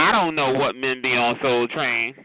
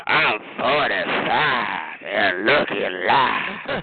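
slow low mock Jerome; 6 semitones lower, much slower than usual. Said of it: "He said".

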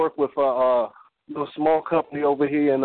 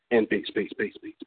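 peace fading to a hush; fading quiet; 5 semitones lower, 5 dB quieter than usual. Acted. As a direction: let each peace fall softer. Poem closing.

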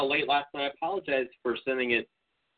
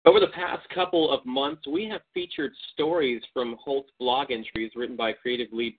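radio host opening the show; broadcast host intro. Acted. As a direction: read it like a podcast intro. Opens the recorded broadcast.

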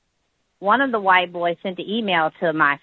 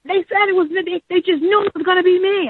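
imitating her son; 13 semitones higher than usual. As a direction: pitch it way up like the son complaining to mom. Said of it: "He's like".

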